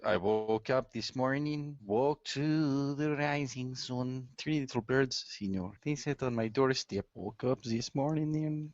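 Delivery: put-on singing a reggae singer in a Mexican accent; slow reggae tune with Mexican accent. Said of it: "a reggae singer in a Mexican accent".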